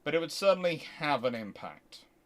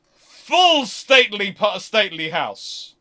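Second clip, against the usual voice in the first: awed; 4 semitones higher, 10 dB louder, slower than usual. Retold or imitated. Awed arrival at a stately house.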